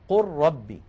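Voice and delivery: قل ربي recited with the lam merged into the ra; reciting the example. Shown as a demonstration. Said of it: "نحو قوله تعالى".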